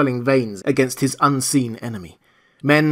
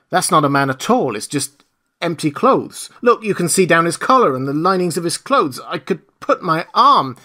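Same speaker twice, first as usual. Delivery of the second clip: higher, louder, amazed villager pointing it out; excited villager; 6 semitones higher, 5 dB louder than usual. Acted. Huckster amazed at the empty clothes, excited and raised. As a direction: marvel aloud at the empty clothes.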